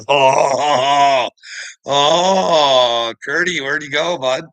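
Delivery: loud sing-song mockery, laughing through it; mocking taunt. Real, not acted. Taunting the departed Kurt on stream, loud mocking call.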